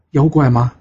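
high-pitched startled question; mildly acted fright at a monster; startled alarm. King Wen seeing a winged stranger, startled.

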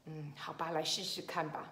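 soft, low resigned thought; reluctant self-talk. Acted. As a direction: talk yourself into it quietly. Frog reluctantly agrees to try.

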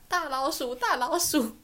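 repeating aloud. Retold or imitated. Classmate parroting the whispered answer aloud. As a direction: blurt it out to the class. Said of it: "然后他就讲".

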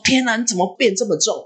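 high-pitched, astonished complaint; exclaiming father. Retold or imitated. Father holding up the limp child, high and astonished. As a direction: imitate a dad taken aback, pitch leaping up.

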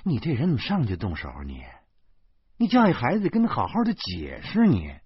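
complaining, exasperated wife; reproachful. Acted. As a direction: scold him for his behaviour. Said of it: "老婆埋怨我说".

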